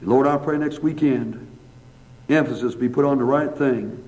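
earnest, even-pitched pastoral prayer; public prayer. Real, not acted. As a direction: address God in steady phrases with pauses between petitions. Let's bow for a word of prayer.

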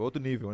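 "nível" with Spanish final-syllable stress; Spanish-style nível. Real, not acted. Guest repeating his point, "nível" stressed Spanish-style as ni-VEL. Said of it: "porque é em espanhol, nível".

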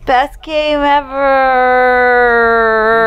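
loud, high victory yell, stretched out; exultant cheer. Real, not acted. Player celebrating a win over the boss, exultant cheer. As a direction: yell it and hold the last word. Cheering after winning the game.

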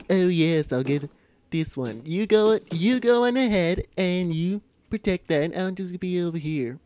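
loud, badly imitated cartoon voice; Stewie Griffin. Gamer bossing teammates, shaky cartoon impression. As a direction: give orders in a put-on character voice. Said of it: "that doesn't sound like Stewie at all".

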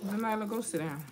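normal talking voice

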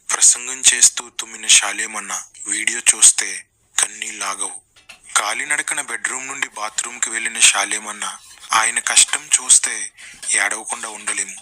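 low-pitched fake mournful announcer; mock tragic. Critic parodying tearjerker video titles, mock tragic. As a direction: intone it gravely, as if heartbroken, in parody.

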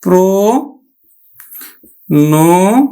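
প্র- then ন- said apart with pauses; syllable by syllable. Shown as a demonstration. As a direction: split প্রণতি into its syllables. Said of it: "উচ্চারণ করবো আমরা". (প্রণতি ভেঙে ভেঙে উচ্চারণ)

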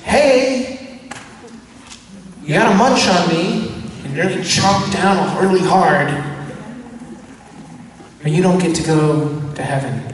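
hammed-up preacher pushing the crowd to chomp down; mock pushy Jesus. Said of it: "this guy's like".

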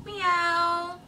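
fake cat meow. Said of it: "a human pretending to be a cat".

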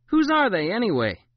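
put-on loud, high indignant kid; protesting child. A narrator's reading. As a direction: demand an answer, voice cracking up high. Child protesting oversized clothes.

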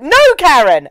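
mild mock shout, falling away; overdone movie-line urgency; hilarious dramatic delivery. Host quotes the film's exorcism line, comically dramatic. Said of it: "delivered in such a hilarious style".

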